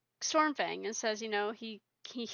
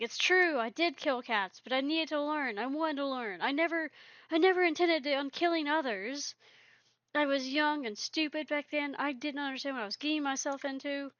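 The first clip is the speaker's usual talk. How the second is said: angry yowl; 4 semitones higher, faster than usual. Retold or imitated. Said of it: "literally yowling in, in anger".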